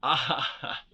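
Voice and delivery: a short, loud burst of laughter; barked laugh. Acted. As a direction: bark out a laugh at her bluntness. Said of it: "Milos barked out a laugh".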